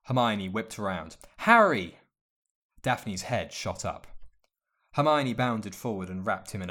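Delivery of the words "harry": loud, high joyful shout of his name; excited cry. A narrator's reading. Hermione greeting Harry after long absence, joyful shout. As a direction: burst out with delight at seeing him.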